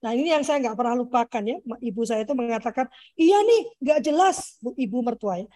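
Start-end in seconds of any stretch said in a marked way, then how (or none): 3.2-4.6 drawn-out, higher-pitched imitation of a dismissive mother-in-law; slightly exaggerated quoted grumble; dismissive complaint. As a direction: mimic her brushing it off, slow and raised. Mother-in-law's dismissive answer, quoted.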